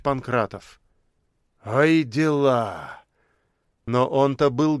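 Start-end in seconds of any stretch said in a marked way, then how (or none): 1.6-3.0 drawn-out marvel. A narrator's reading. Businessman shaking his head, slow amazed sigh. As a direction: stretch it out in wonder.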